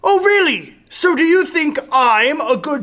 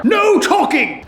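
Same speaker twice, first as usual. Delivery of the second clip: stern shout; 3 semitones higher than usual. Acted. Teacher enforces rules.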